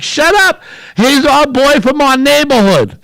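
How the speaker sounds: high, loud, fired-up grandma voice; excited grandma. Retold or imitated. Grandma shushing grandson during wrestling, high excited scolding. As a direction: shush the kid, then boast about the local hero. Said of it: "She's like".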